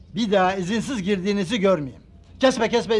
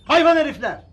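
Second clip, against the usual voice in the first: angry outburst; 6 semitones higher, 5 dB louder than usual. Acted. Guard furious at the vendors.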